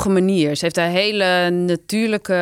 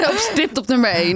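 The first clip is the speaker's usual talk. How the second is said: higher voice bubbling with laughter; real laughing; 6 semitones higher than usual. Real, not acted. Guest naming Astrid as the funniest, laughing. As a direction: say it while still laughing, pitched up.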